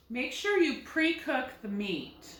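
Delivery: "pre-cook" with the accent on its first syllable, "pre"; stress on pre. Shown as a demonstration. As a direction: try it in a sentence, leaning on the "pre" of "pre-cook". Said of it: "pre is getting the accent".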